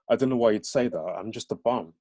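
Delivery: lightly lilted Birmingham reply; Brummie accent. Acted. Fraser brushing off a compliment, in Brummie accent. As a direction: shrug it off in Brummie. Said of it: "aren't familiar with the Brahmi accent".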